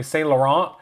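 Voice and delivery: "Saint Laurent" as san luh-RAHN; French-style pronunciation. Shown as a demonstration. YouTuber showing how the brand is said, French-style pronunciation. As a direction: end "Saint Laurent" on an open vowel, T unsounded. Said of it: "It's just pronounced differently".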